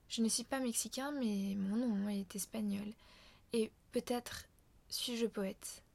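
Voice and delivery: slow, measured poetry reading with hushed line ends; poem recital. Shown as a demonstration. Reading the poem's closing lines aloud, hushed recital. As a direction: recite each line, letting the last words fall away. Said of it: "je vais le lire une fois en entier avant de le commenter".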